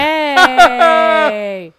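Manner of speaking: cheerful shout. Real, not acted. Cheering the pun.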